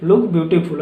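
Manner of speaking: each word of that great you look beautiful drawn out; slow, careful teacher demo; slow model reading. Shown as a demonstration. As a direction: read it slowly so students can follow. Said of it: "ठीक है".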